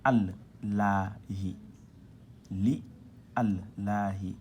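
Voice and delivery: Arabic syllables sounded out one by one; reading demonstration. Shown as a demonstration. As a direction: model "al, la, hi" with firm, separate syllables. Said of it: "il faut lire comme ça". (lecture syllabique détachée)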